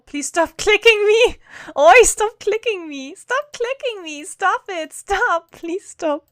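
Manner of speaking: annoyed game unit. Acted. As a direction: whine like a poked game unit. Voicing unit annoyed at clicking.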